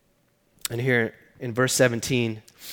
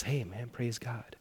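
put-on much softer and slower, a weak old man; frail old uncle; 13 dB quieter, slower than usual. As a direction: barely voice a frail blessing. Frail dying uncle quoted.

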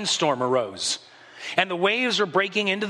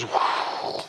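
whoosh. Retold or imitated. Storm stops, sound effect of wind dying. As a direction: blow the storm away with a sigh. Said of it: "everything just goes".

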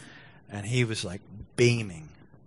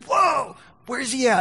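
mock shocked police; slower than usual. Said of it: "I was ready for them to go".

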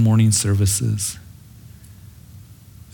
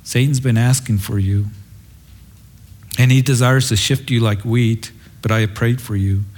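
understated tenderness, settling lower; tender; 3 semitones lower than usual. Acted. The Lord warning Simon he has prayed for him, tenderly. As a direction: voice the Lord's gentle concern. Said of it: "He says it very tenderly".

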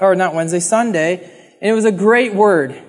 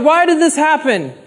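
higher-pitched cry to God, lightly acted; mild mock outcry; 6 semitones higher than usual. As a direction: imitate people crying out to God. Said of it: "they're crying out to God".

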